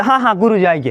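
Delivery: mock distracted student. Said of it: "तो बोले".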